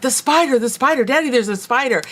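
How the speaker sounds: four-year-old daughter bursting in about a spider, mock squeal; imitating a scared child. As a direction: lightly play the panicked four-year-old calling for daddy. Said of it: "came squealing into the room, four-year-old, just crying".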